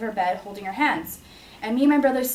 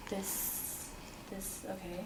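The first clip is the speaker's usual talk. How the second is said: whispered, softer, barely holding together; shaken whisper; 17 dB quieter, much slower than usual. Retold or imitated. Daughter seeing her mother's body, whispering to steady herself. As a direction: breathe the words out in shock. Walking back into room.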